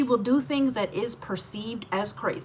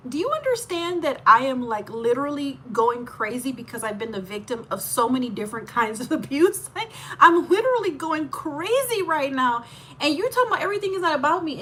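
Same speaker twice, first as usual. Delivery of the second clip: heated protest; 4 semitones higher, 3 dB louder than usual. Retold or imitated. Her own retold protest.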